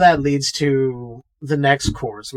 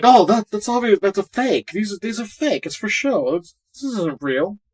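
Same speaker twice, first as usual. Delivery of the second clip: dismissive quote; 6 semitones higher than usual. Retold or imitated. Retells someone waving it all off.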